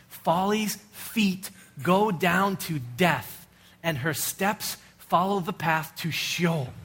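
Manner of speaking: slow, grave father's warning; solemn fatherly warning. Retold or imitated. Father Solomon warning his son, slow and grave. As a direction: lean in and slowly warn your son. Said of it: "One time he says it like this".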